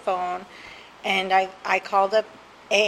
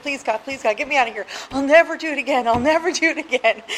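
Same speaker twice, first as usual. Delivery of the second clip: desperate prayer; 4 semitones higher, faster than usual. Retold or imitated. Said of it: "And I just started praying".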